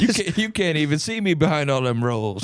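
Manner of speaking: high whiny puppet complaint; high squeaky puppet voice. Pretend. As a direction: whine it through a tiny mouth. Puppet voice continuing bit.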